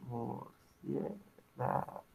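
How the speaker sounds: teacher slowly splits Murciélago into syllables; silabeado. Shown as a demonstration. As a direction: draw each syllable out, very slow. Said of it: "¿Cómo se separa?". (el profe separa Murciélago en sílabas, muy despacio)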